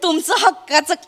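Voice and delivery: overly sweet hostess voice on the phone; mock sweet welcome. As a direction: charm the sister-in-law falsely. Wife sweetly welcoming sister-in-law on phone.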